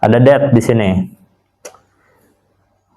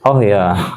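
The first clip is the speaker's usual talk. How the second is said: "Oh ya" dropping in recognition; "Oh ya" said on a downward tune; confirming, falling intonation; 2 semitones lower than usual. Shown as a demonstration. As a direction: let "Oh ya" fall, as if remembering. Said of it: "intinya sama-sama mengkonfirmasi".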